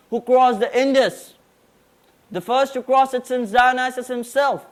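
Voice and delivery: formal declamation; prim precise elocution. Acted. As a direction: deliver it like a stage oration. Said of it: "present a declamation on Alexander the Great".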